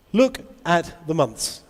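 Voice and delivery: slow, measured teacher instruction; classroom teaching demo. Shown as a demonstration. Teacher shows colleagues how she addresses students, slow and measured. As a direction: address a class word by word, slowly. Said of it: "This is how I teach".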